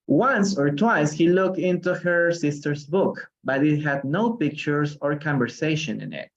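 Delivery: slow, careful reading of a storybook line; read-aloud. Acted. Teacher reading Alice to the class, slow and careful.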